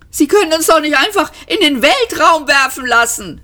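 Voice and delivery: high, panicked protest; frantic high-pitched shout. A narrator's reading. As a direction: cry out in outrage, pitch way up. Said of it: "schrie Ford".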